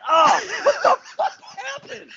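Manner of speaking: high startled yell, drawn out; shocked shout. Retold or imitated. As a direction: yelp in surprise at a punch. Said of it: "And I just like".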